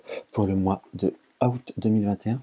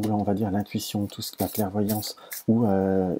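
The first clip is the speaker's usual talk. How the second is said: ordinary talk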